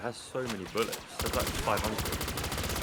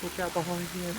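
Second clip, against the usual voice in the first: sudden high warning call; alarm shout; 9 semitones higher than usual. Real, not acted. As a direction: yell a quick warning to a teammate. Warning teammate of zombie behind.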